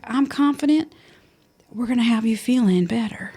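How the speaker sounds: mild impression of a confident, soothing doctor; hint of a Southern doctor reassuring her patient. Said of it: "she's got a really, like, soothing voice".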